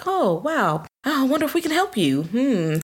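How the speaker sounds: high, syrupy mock-accommodating voice; overly sweet helpers. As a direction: fawn over him like patronizing hostesses. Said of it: "they're like".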